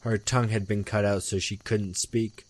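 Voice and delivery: measured horror storytelling, falling away at sentence ends; story narration. A narrator's reading. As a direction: read a grim ghost tale aloud.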